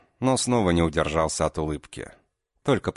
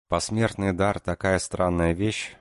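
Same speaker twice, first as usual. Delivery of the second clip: pensive; 3 semitones higher than usual. Acted. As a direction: think aloud, unhurried. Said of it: "задумчиво произнесла Маринка".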